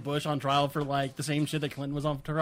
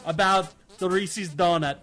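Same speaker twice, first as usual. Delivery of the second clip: presidential address; slower than usual. Acted. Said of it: "do a president voice".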